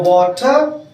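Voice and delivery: teacher's American-style वाटर; American accent. Shown as a demonstration. Teacher contrasts accents for students, वाटर in American accent. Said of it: "ये बन गया American".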